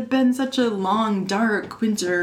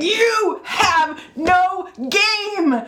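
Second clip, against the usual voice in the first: laughing teasing; 8 semitones higher, much slower than usual. Retold or imitated. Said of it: "Erin is like".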